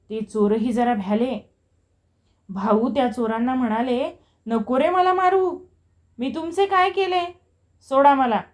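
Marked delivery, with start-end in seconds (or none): 4.5-8.4 high-pitched begging for mercy; piteous, raised-pitch entreaty; helpless pleading. A narrator's reading. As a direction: plead with the attackers to let go. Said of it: "दीनवाने त्या चोरांना ते विनवीत होते".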